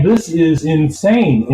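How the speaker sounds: disbelief. Retold or imitated. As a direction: stretch it out in amazement. Reacting to interview revelations.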